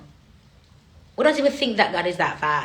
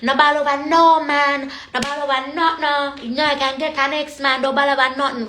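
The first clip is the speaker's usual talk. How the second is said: mock tough woman; 6 semitones higher than usual. Speaker quoting Rachel vowing never to cry over a man, higher. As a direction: declare it defiantly in patois.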